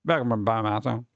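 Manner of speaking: fast Boomhauer mumble; Boomhauer impression. Streamer says it the Boomhauer way, fast mumble. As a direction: rattle it off like Boomhauer.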